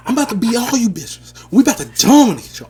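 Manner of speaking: high, laughing taunt; retold boastful gloat; trash talk. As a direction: brag you'll crush them all. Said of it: "I talked so much shit".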